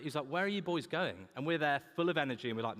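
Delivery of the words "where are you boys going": put-on northern accent. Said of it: "was that a northern accent".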